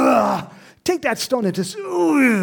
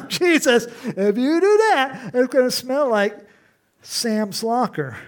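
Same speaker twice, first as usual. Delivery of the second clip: high, loud pleading Martha; fussing at Jesus about the smell; 5 semitones higher, 4 dB louder than usual. Retold or imitated. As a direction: Martha protesting to Jesus, lightly acted. Martha voiced objecting to Jesus.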